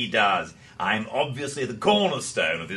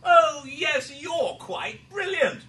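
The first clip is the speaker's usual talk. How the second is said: mock praise; 11 semitones higher than usual. Mocking praise mid-quarrel.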